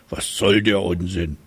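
trumpeting elephant. Acted. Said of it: "trompetete er".

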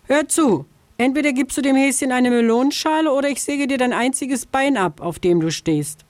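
höhere, schnelle Drohung der Füchsin; Füchsin droht. A narrator's reading. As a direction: eine listige Füchsin droht von weitem. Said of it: "drohte Frau Füchsin". (Füchsin droht der Vogelscheuche, höher und schnell)

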